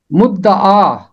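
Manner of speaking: मुद्दआ said with a doubled द and a long final आ; pronunciation of मुद्दआ. Shown as a demonstration. Teacher to class, showing how मुद्दआ is pronounced, careful. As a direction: say मुद्दआ clearly: mud-da-aa. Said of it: "मुद्दआ इसका तलफ़ुज़ है".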